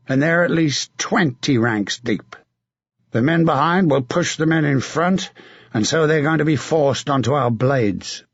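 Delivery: a battle-hardened knight urging a comrade on; hard, rough commander's voice; grim veteran knight giving orders; gruff knight. Acted. Sir John sizes up the enemy.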